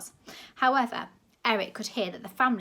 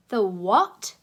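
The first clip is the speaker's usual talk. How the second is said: blunt, louder demand; 10 dB louder than usual. A narrator's reading. Deaf grandma demanding he repeat, loud. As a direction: bark it back at him. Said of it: "she demanded".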